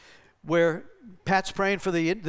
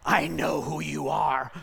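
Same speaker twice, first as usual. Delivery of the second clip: demon voice; 2 semitones lower, slower than usual. Retold or imitated. Demon mocking the man at the deli, slow menacing growl. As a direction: drag it out like a demon unmasking him.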